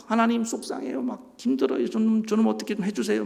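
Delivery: lightly acted complaint, pitched high; upset pleading. David pouring out his troubles to God, mock-distressed pleading.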